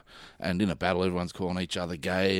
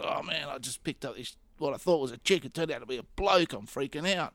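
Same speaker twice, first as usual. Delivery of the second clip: higher-pitched retold flustered guy; mock fluster, pitched up; flustered, freaking out; 6 semitones higher than usual. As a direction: imitate a rattled mate blurting it out. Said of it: "he looked all flustered".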